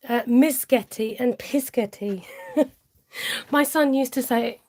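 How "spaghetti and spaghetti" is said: spaghetti mangled to start with M, then P; kids' versions of spaghetti: misketti, pisketti; child's spaghetti, miscetti and piscetti. Retold or imitated. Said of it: "pronounce it".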